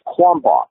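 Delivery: "Kwamba" as the Korean form of Kenpo; Korean pronunciation. Shown as a demonstration. Teacher giving the Korean version of the term, Korean pronunciation. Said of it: "that's the Korean pronunciation of Kenpo".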